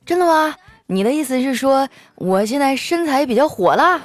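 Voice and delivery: high-pitched, mock-delighted surprise; happy. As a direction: act flattered and pleased. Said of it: "调调开心地说".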